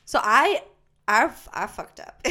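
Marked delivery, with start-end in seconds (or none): 1.1-2.2 laughing through the admission. Real, not acted. Stoned friend confessing to cohost, laughing. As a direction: giggle out the confession.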